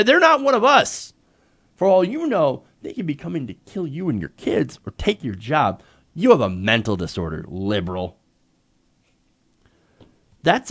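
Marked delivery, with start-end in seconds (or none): 0.0-8.2 mock right-winger. Mocking the right's view.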